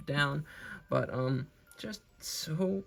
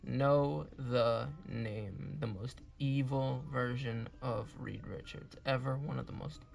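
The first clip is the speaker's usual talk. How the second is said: dramatic announcer; 4 dB quieter, slower than usual. Acted. Dramatic slow outro announcement.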